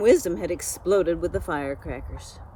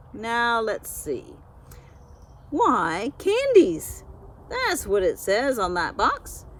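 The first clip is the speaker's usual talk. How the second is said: bossy know-it-all goose; 4 semitones higher, slower than usual. Acted. Petunia lecturing Straw about his teeth, in a high bossy goose voice.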